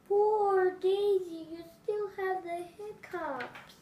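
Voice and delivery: dad pitying his hiccuping daughter; sympathetic dad. Acted. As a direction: sound sorry for her. Father pities hiccuping child.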